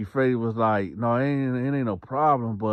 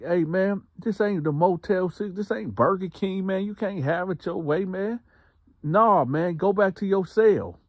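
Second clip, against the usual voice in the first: guard yelling; 10 semitones higher than usual. Retold or imitated. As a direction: play the fed-up guard shouting him down. Guard yelling at inmate in story.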